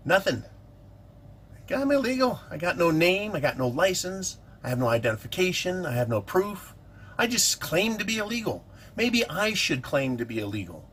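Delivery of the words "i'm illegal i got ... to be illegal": mock migrant voice. Mocking an illegal immigrant.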